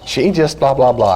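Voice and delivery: whiny-kid impression trailing into blahs; complaining daughter. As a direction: imitate an upset girl venting. Voices upset daughter complaining.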